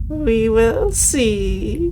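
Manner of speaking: slow, drawn-out menacing witch; distant witch voice. Acted. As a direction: threaten from all around. Witch reply.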